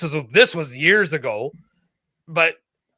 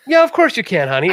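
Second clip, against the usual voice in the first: high, suddenly obliging shopkeeper; mimicked sweet approval; 4 semitones higher, 4 dB louder than usual. Imitating shopkeeper rewarding a boy's manners, high and sweet. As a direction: jump up high and give gracious permission. Shopkeeper relents once asked politely.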